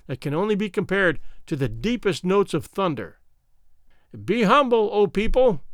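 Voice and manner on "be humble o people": high thin piping voice; thin reedy voice. Acted. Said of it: "piped out a thin voice".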